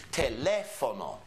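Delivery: "Teléfono" slowly, with the LÉ stressed; stress on second syllable. Shown as a demonstration. Teacher showing students the accent mark, stressed LÉ in "Teléfono". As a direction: lean on the "lé" in "Teléfono". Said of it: "we emphasize a certain syllable".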